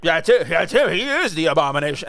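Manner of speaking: quick, mildly mock-excited exclamation; excited seizing on it. Mocking people who seize on a villain's name, excited. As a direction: pounce on the name, playfully imitating.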